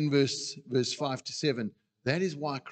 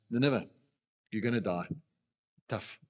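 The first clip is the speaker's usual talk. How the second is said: uncaring; 3 semitones lower than usual. Shown as a demonstration. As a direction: toss out the doom as if you couldn't care less. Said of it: "Or Jonah, perhaps".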